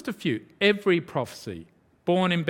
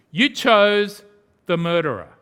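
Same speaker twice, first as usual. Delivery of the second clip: accusing shout; 7 dB louder than usual. Acted. Preacher accusing the crowd.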